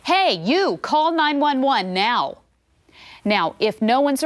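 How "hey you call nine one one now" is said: raised, firm order, slow on call nine one one; ordering a bystander to call for help, firm and raised; commanding call. Shown as a demonstration. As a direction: bark the order so they act. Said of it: "say it like you mean it".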